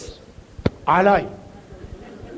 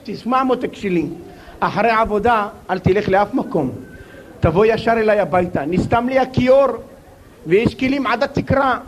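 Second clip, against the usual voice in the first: doting mother. Retold or imitated. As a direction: coo at her son lovingly. Mother calls son lovingly.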